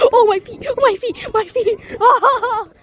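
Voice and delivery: hot feet, pained and yelping; pained yelps. Real, not acted. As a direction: hop on burning sand. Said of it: "my feet are burning".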